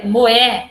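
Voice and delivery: "moé" as one joined beat; syllables run together. Shown as a demonstration. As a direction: stress "moé" as a single linked unit. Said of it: "vai ficar tudo junto".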